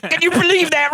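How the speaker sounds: whiny fake sob voice; imitating a crying man; mock crying. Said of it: "He started crying".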